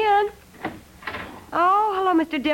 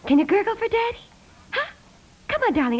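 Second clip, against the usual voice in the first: put-on coaxing the baby; 7 semitones higher, faster than usual. Mother coaxing baby on phone.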